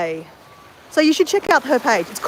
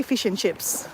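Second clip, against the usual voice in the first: plain Aussie "Fish and chips", a bit lower and softer; Australian accent; 3 semitones lower, 6 dB quieter, slower than usual. Shown as a demonstration. Showing viewers how Australians say it, in an Australian accent. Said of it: "and we say".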